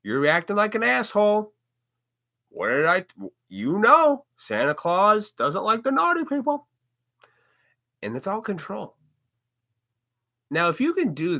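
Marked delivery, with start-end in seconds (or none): 0.0-6.7 mock scolding parent, pitched much higher; hammed-up parent warning the kids about Santa; threatening parent. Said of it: "threaten the kids by saying".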